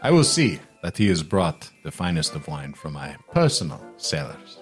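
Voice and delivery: lightly voiced lordly host, lingering on the finery; gracious merchant. Merchant promises wine for the giant, gracious. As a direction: offer hospitality with a flourish.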